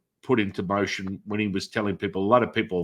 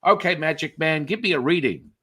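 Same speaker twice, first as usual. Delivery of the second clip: sarcastic skeptic; 7 semitones higher than usual. Retold or imitated. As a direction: tease the magic man, doubting. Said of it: "people are always like".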